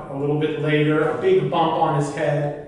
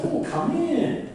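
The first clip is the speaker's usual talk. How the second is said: much higher, softer, breezy welcome; a soft, friendly troll inviting him in; troll husband; 10 semitones higher, 4 dB quieter than usual. Acted. Troll greets his father-in-law.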